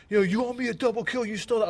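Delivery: mock a teammate griping over a stolen kill; imitating a whiny teammate. Retelling a teammate demanding his double kill, mock whine. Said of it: "freaking out".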